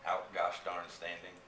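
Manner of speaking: Texas drawl. Retold or imitated. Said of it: "in Texas all the time".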